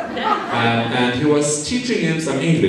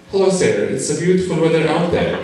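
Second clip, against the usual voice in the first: confident greeting; 4 semitones higher than usual. Retold or imitated. Friend proudly greeting the border officer at minus twenty-five. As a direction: deliver it with total confidence. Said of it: "My friend was so confident".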